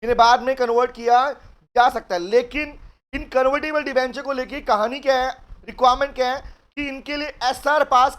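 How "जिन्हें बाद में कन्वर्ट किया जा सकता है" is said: slow, careful reading of the provision; reading the law aloud. Shown as a demonstration. Teacher reads the provision slowly to students. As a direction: read each word slowly to the class. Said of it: "सुनो ध्यान से, कह रहे".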